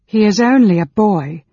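heated outburst; anguished cry. A narrator's reading. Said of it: "cried in a low voice".

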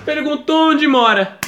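high, drawn-out cry of disbelief; exasperated subconscious. Acted. Inner voice reacting to his awkward question, exasperated outcry. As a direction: stretch it out, high and appalled. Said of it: "meu subconsciente tava tipo".

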